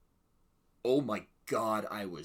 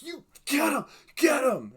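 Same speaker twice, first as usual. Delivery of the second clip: high, loud urging yell; screaming at screen; 12 dB louder than usual. Retold or imitated. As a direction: egg the hero on at full voice. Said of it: "I was screaming at the T V screen".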